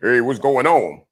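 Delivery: deep, low woman's voice. Describing women he won't deal with, the speaker imitates one, deep woman's voice. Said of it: "a woman that got a deeper voice".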